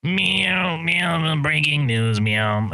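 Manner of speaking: meowing sound effect. Acted. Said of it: "You didn't make your robot sound".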